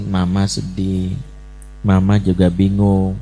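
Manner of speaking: name the feeling tenderly; gentle I message. Retold or imitated. Mother telling her child she is sad and unsure, mildly tender. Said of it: "Jadi sebutin".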